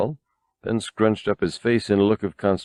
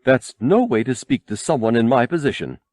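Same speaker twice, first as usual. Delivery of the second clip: prissy, offended droid voice, pitched up; haughty; 4 semitones higher than usual. A narrator's reading. The golden droid rebukes R2, haughty and prissy. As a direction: sniff down at him from a throne. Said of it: "With a haughty tilt".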